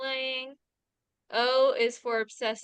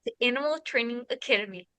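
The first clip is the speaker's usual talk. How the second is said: put-on New Zealand podcast host; New Zealand accent. Shown as a demonstration. Playfully opening a podcast for friends, New Zealand accent. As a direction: show off a practiced Kiwi accent. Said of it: "I've been practicing my New Zealand accent".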